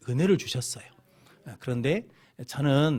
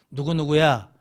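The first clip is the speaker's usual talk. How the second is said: louder call by name; 7 dB louder than usual. Acted. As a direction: call to someone to get their attention. God calling someone by name. (이름을 크게 부르듯이)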